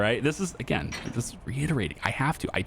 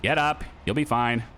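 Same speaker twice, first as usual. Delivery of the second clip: dad voice; 2 semitones higher than usual. Real, not acted. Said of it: "Can you tell I'm a dad?".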